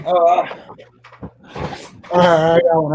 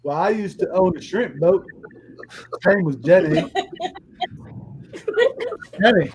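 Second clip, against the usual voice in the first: Forrest Gump. Acted. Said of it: "Tony Montana meets Forrest Gump".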